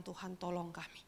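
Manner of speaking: whispered plea to God; silent prayer. Retold or imitated. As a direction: whisper the prayer under your breath. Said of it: "di dalam hati".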